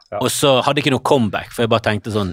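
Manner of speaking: ordinary talk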